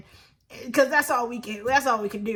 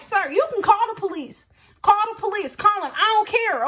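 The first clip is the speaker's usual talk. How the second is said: defiant dare; 5 semitones higher than usual. Retold or imitated. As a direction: dare him to call, unbothered. Daring bouncer to call police.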